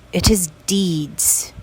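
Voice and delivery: hushed emphasis on "is", slow; whisper. Retold or imitated. Repeating dad's saying for emphasis.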